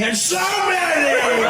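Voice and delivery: very slow, swooping up high and loud; Donald Trump. Acted. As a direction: blare it out in a soaring stretch. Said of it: "It was always high".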